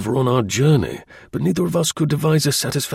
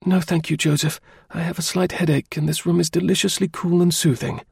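higher, gentle female character voice; higher-voiced sister, mildly demurring; polite young woman; 7 semitones higher than usual. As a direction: decline politely in a lifted, ladylike voice. Narrator voices Miss Harrison.

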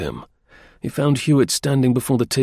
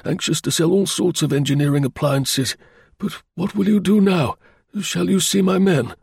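higher-pitched engineer voice; engineer client; 6 semitones higher than usual. Acted. Engineer explaining his office to the investigator, higher voice. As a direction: answer as the earnest client.

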